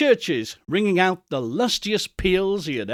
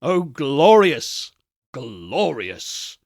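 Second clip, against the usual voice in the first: ecstatic exclamation; 3 semitones lower, 3 dB louder, much slower than usual. Acted. Scrooge's ecstatic sigh.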